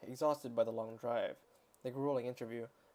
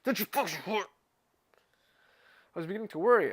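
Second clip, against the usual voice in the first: loud worried friend; 7 semitones higher, 10 dB louder, faster than usual. Acted. Kate greets Anna loudly.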